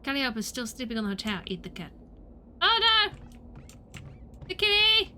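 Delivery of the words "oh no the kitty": high-pitched dismay; high, worried outcry; mock alarm. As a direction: squeal in playful distress. Alarm at scaring the cat.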